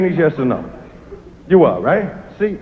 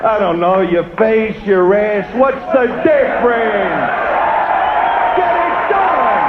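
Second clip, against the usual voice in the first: impatient husband yelling; slower than usual. Retold or imitated. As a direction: bark it out, fed up. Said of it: "you'll hear stuff like".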